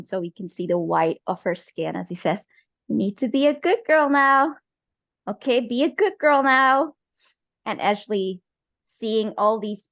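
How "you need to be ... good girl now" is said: higher, insistent parental command; tense, pitched-up coaxing; pressuring father. Acted. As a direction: press a child firmly to behave. Father grips and pressures daughter.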